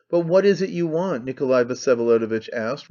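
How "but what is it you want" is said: raised voice. A narrator's reading. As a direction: voice finally raised, higher and a bit louder. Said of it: "raising his voice at last".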